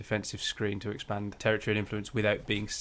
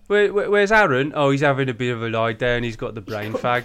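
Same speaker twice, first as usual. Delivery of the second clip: put-on Black Country accent; 2 semitones higher, 7 dB louder than usual. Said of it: "Oh, the black country accent".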